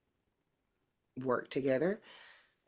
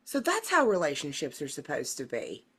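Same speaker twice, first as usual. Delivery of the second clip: acted realization. Co-host recalls seeing healthy couples, acted dawning surprise. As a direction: imitate a sudden mild revelation. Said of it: "where I'm like".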